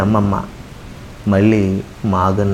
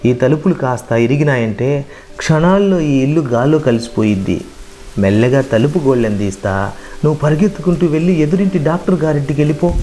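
a lightly voiced grandmother, urgent, last line higher and faster; 3 semitones higher than usual. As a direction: grandmother hurrying the boy out before the house falls. Grandmother urges child out in storm.

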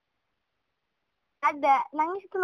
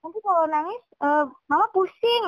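guilt-tripping mother; 4 semitones higher than usual. Retold or imitated. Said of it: "Jangan bilang".

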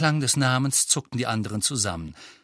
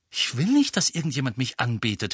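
heated outburst. Acted. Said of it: "fuhr Harry hitzig auf".

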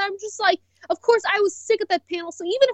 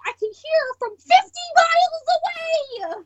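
laughing; 9 semitones higher than usual. Real, not acted. Laughing tease.

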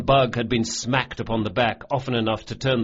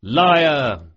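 loud, higher group jeer; jeering shout; 4 semitones higher, 7 dB louder than usual. A narrator's reading. Thieves jeering at Locke's toast, shouting together. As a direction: bellow it to mock the boast. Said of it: "they chorused in unison".

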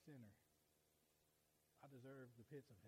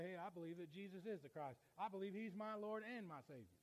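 loud, raised declaration of faith; bold confession; 5 semitones higher, 6 dB louder than usual. Acted. New believer standing up to the world, bold confession. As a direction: declare it firmly to a whole room. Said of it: "Stand up to the world and say".

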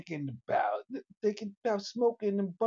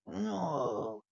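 pirate voice; much slower than usual. Acted. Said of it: "Why you talking like that? Some type of pirate?".

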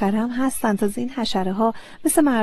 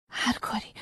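a soft breathless "هر کاری"; whispered start; 9 dB quieter than usual. Acted. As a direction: barely voice "هر کاری" first. Eager promise repeated.

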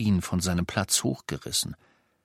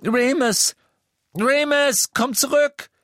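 much higher, loud desperate cry; shouting after him; 6 dB louder, slower than usual. A narrator's reading. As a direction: scream after him to come back. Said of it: "schrie Hermine". (Hermine schreit Lupin verzweifelt nach)

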